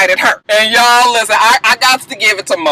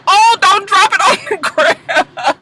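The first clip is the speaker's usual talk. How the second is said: mock plea; 7 semitones higher, slower than usual. Pleading with the cast member on TV.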